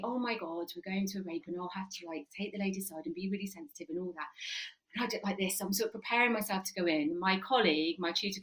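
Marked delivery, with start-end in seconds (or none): 0.0-4.3 soft, quick nervous self-talk; anxious inner thought. Retold or imitated. Rookie officer thinks before a call, quick soft worry. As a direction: rookie bracing herself, murmuring. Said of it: "I'm all new and thinking".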